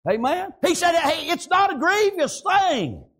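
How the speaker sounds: driving revival sermon cadence; rolling country-church preacher delivery; fervent preaching. Real, not acted. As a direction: preach it with conviction, stretching the final words. Preaches with drive.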